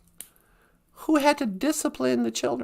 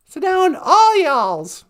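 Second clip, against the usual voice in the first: Southern accent; 2 semitones higher, 5 dB louder, slower than usual. Shown as a demonstration. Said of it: "As they would say in the South".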